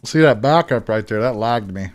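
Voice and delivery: talking with mouth full; words round a mouthful of food. Real, not acted. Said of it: "I have my mouth full of food".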